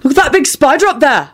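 high, alerting call; loud. A narrator's reading. Neville distracting Ron with a spider, loud. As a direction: draw every eye upward. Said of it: "he said loudly".

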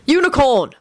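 high-pitched eager cry; excited call, pitched high; excited urging. A narrator's reading. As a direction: urge the game piece on. Cheering on game pieces.

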